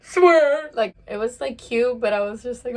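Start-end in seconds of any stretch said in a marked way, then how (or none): 0.0-0.7 tearful outburst. Retold or imitated. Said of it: "He's like".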